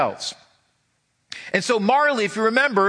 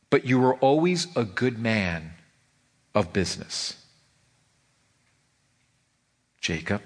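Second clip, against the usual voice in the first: faltering; 5 semitones lower than usual. A narrator's reading. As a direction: let the words falter as it sinks in. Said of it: "faltered Scrooge".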